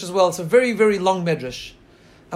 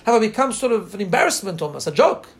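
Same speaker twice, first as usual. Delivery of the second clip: mournful lament; 2 semitones higher than usual. Retold or imitated. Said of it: "and then he starts to cry".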